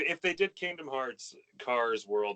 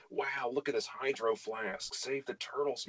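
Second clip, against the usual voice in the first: slow, lightly voiced VSCO girl; 5 dB quieter, slower than usual. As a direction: play a trendy VSCO girl, slowed down. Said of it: "talking like a VSCO girl".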